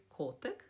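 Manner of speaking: «котик» stressed on first syllable «ко». Shown as a demonstration. Teacher gives viewers a two-syllable example, «котик» stressed on «ко». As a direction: lean on «ко» in «котик». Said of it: "наголос падає на, а, склад «ко»".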